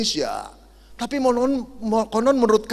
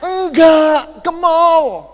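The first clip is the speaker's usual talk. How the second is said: higher, much louder exasperated yell; shouting wife; 8 semitones higher, 10 dB louder, much slower than usual. Retold or imitated. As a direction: yell it at a deaf husband. Wife shouts at deaf husband.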